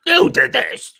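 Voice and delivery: mock yell. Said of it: "be like".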